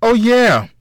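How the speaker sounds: light up as you remember; bright exclamation. A narrator's reading.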